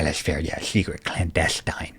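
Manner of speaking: low, soft, sinking into a whisper; conspiratorial near-whisper; mock secretive hush. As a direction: play along with the secrecy in a hush. Playing along with the whispering.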